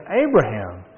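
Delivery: rising-then-falling call of a name. Acted. God calling Abraham by name.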